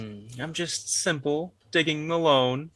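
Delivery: put-on old prospector. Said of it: "the grizzled old prospector".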